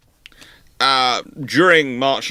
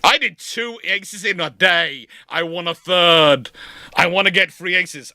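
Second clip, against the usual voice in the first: eager Walker; 5 semitones higher than usual. Retold or imitated. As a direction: savour each ace. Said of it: "Walker going".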